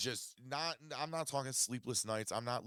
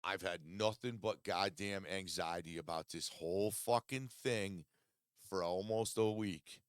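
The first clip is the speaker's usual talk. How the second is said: retold snapping at friends. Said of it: "I snapped and I said".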